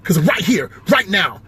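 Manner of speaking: indignant comedian impression; lightly impersonated, mildly affronted comedian; Kevin Hart. Comedian objecting to being insulted, lightly done Kevin Hart voice. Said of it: "if I do Kevin Hart".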